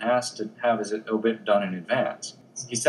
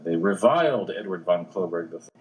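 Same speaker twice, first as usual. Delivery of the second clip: mock headline; 3 semitones lower than usual. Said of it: "things like".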